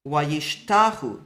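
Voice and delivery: wayishtachu said slowly, the waw ending as a u vowel; slow example word. Shown as a demonstration. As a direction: draw out wayishtachu and end on the u. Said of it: "shortens up to".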